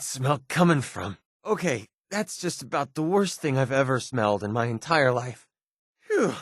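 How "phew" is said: disgusted exhale. Acted. Recoiling from a foul smell.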